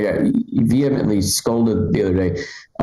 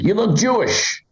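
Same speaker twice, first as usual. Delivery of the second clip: high, drawn-out insistence; insistent stranger imitation; 11 semitones higher, slower than usual. Guy insists after show, drawn-out mock insistence. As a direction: stretch it out as a pushy stranger.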